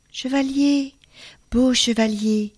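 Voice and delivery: une jeune fille implore doucement, un peu aiguë; voix suppliante. Acted. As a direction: supplier à mi-voix pour réveiller. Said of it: "qui les appelait d'un ton suppliant". (la jeune fille implore les chevaliers, voix suppliante)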